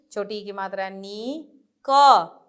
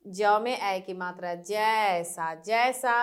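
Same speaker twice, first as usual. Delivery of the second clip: teacher reading aloud. Shown as a demonstration. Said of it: "एक बार और पढ़ेंगे".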